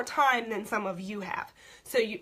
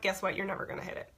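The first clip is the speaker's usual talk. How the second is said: blunt; 5 dB quieter, faster than usual. Real, not acted. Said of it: "I'm just gonna be really blunt".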